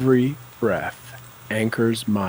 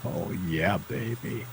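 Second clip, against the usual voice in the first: hushed cheer; 2 semitones lower, 7 dB quieter than usual. Real, not acted. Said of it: "coach cheers the affirmation".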